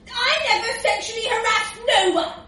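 high, loud, indignant denial; shouting. A narrator's reading. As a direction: shout your innocence. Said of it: "he shouted".

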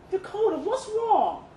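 a dad chasing his scared daughter; worried call. A narrator's reading. Father calling after Dakota as she flees, alarmed.

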